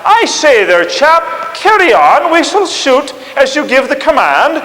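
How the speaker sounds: high, loud, slow broken English with a French lilt; a French officer politely offering to start the shooting; mock French accent. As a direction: ham up a French officer's courtesy. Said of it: "in broken English".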